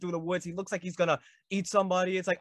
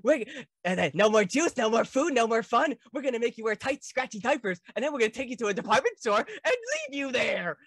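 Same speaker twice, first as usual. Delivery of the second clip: higher, louder mock-menacing dad voice; high pitched Earl Sinclair; 5 semitones higher, 4 dB louder than usual. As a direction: squeak out the threats like a nightmare father. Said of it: "very high pitched voice as Earl Sinclair".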